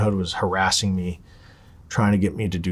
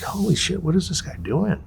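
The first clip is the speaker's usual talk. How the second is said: baffled exclamation, pitched way up; retold disbelief; 9 semitones higher than usual. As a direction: voice jumps up in mock alarm. Retells alarm at friends' warning calls.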